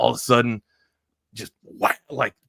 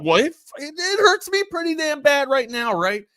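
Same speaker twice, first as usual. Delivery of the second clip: put-on high, pained little-kid whine; mock-tearful child talking back; whiny kid retort; 3 dB louder than usual. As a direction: squeak it back like a hurting ten-year-old. Kid self answering dad mid-whipping.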